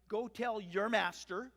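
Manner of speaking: slow, loud, pointed order; curt contempt, drawn out loudly; testy. Acted. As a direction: lean testily on "your master". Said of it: "it just gets a little bit more testy".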